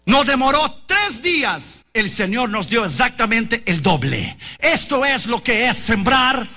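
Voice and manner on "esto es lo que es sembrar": full-force preaching. Acted. Preacher driving the lesson home to the congregation, with full-force shouting. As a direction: drive the message home to the congregation.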